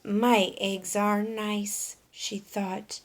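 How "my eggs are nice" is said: glum. Acted. She felt rather glum.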